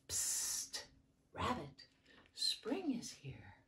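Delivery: soft, breathy storybook whisper. A narrator's reading. The ladybug whispering into the rabbit's ear, hushed. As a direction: lean in and whisper it secretly. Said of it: "as it whispered".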